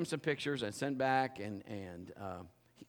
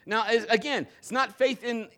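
loud, high, driving sermon voice; full-force preaching; 8 semitones higher, 7 dB louder than usual. Acted. Pastor exhorting the congregation to trust God, at full force. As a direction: preach it out to the back row.

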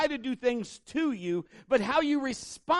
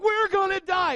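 high, loud mock panic; imitating a scared man on a plane; panicked seatmate; 9 semitones higher, 6 dB louder than usual. Seatmate on the plane panicking, high mock panic.

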